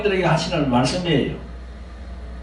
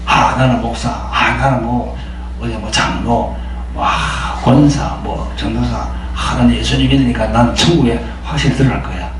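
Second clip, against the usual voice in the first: lower, mock-complacent believer's voice; smug believer; 9 semitones lower, 3 dB quieter than usual. Preacher mimicking complacent church officers, lower smug voice. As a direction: lightly play a self-assured churchgoer sure of heaven.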